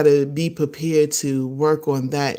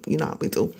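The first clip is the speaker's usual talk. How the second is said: conspiratorial whisper; 5 dB quieter, much faster than usual. Acted. Confiding aside to viewers.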